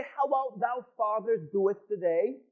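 a hint of stiff old-fashioned prayer; mock formal prayer. Pastor mocking prayers too formal to be honest. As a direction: mockingly recite a stuffy churchy prayer. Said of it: "you don't talk like that".

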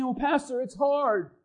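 soft, small imitated whine; mock complaint. Pastor mimicking a tired church member, soft mock whine. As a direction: lightly mimic a weary churchgoer.

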